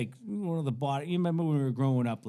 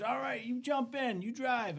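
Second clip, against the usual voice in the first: lightly voiced, higher-pitched buddy; imitated hippie instructor; 12 semitones higher than usual. Stoned hippie letting teen drive, lightly imitated instruction. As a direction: lift it high as a casual go-ahead. High hippie hands over the car.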